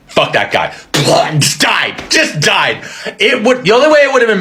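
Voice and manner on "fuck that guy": put-on weary old Pope. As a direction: mutter it like a tired old man. Pope voiced low.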